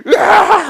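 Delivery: high, loud mock cry of despair; anguished wail. Stalker student storms out, loud hammed-up howl. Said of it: "하고 뛰쳐나와 버려요".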